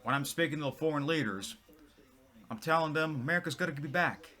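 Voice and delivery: a light take on Biden at a podium; Biden impression. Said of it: "I'm gonna copy his voice again".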